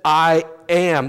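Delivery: I AM stressed, each word given loud weight; emphatic. Retold or imitated. Preacher quoting Jesus, "I am" said emphatically. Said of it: "that's an emphatic statement".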